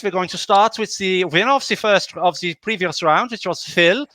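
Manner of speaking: put-on light German accent on the line-up; mock German accent. Host announcing the first player, in a mock German accent. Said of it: "the slightly racist accent".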